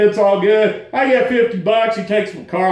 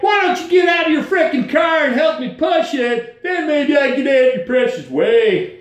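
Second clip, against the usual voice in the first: much higher, shouted at rude drivers; angry retort; 4 semitones higher than usual. Retold or imitated. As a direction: yell back at the jerks driving past. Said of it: "I'm like".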